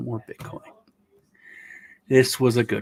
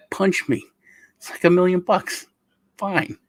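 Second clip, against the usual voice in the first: higher, louder mock mom; imitating mom; 7 semitones higher, 4 dB louder than usual. Imagined mother agreeing to be punched, high mock voice. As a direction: play his mother cheerfully agreeing. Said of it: "she'd be like".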